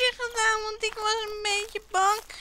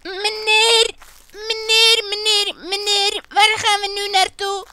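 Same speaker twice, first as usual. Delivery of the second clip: luid roepen; 5 dB louder than usual. Acted. Calling after the man.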